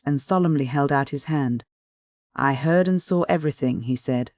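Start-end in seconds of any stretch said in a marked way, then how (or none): 2.4-3.8 saw leaned on firmly; the verb saw given the weight; stress on saw. Acted. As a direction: hit the word saw to make the point. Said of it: "laying stress on the last verb".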